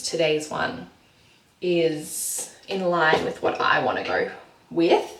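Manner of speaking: chewing gum while talking; mouth full. Real, not acted. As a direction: talk around a piece of gum. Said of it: "Sorry, I've got gum in my mouth".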